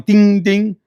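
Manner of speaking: loud mock phone alert; imitated phone ding. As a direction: ring it out like a phone notification. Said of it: "My phone is going".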